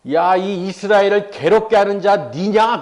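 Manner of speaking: slow, mildly heated accusation; accusing confrontation. Retold or imitated. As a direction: confront them, drawing out the charge. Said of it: "그러면서 막 따지는 것이죠".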